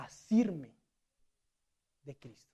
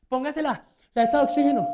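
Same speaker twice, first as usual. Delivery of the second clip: a touch louder, higher attendant; flight attendant order; 7 semitones higher, 9 dB louder than usual. Acted. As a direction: bark the oxygen order like cabin crew.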